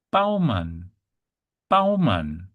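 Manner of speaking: "Baumann" as BOW-mahn, firm first B; German B sound. Shown as a demonstration. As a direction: model "Baumann" for learners, opening on a clear B. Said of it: "for the B sound".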